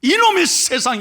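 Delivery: loud, high acted outburst; angry outburst. Young man cursing the unfair world, acted angry outburst. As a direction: rail like a furious young man. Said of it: "야단을 합니다".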